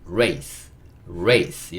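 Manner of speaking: "race" read as ray closing on a light s; model reading. Shown as a demonstration. Teacher reading race for learners, model reading. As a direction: show learners "race" with the final s attached. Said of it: "이렇게 읽을 수 있겠죠".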